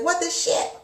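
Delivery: a sudden, baffled jump up in pitch; exasperated what-the. Retold or imitated. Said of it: "And it's just like".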